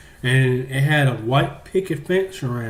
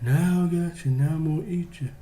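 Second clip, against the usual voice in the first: softer, as if from further off; a distant spooky voice, softer; fainter distant voice; 2 semitones higher, 6 dB quieter than usual. Acted. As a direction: pull it back like it's down the hall. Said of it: "he got further away".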